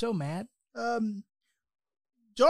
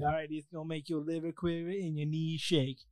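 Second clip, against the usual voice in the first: character voice; 2 semitones lower, 13 dB quieter than usual. Pretend. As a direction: croon it like an old blues singer. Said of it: "We don't own rights to that voice".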